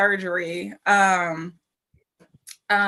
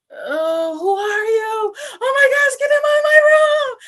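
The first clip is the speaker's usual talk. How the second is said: high-pitched fake panic building to a scream; mock freak-out; 8 dB louder than usual. Patient pranking her husband after surgery, acted screaming freak-out. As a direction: pretend not to know him, rising to a loud shriek. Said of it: "I started freaking out like that".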